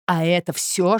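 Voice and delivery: ordinary delivery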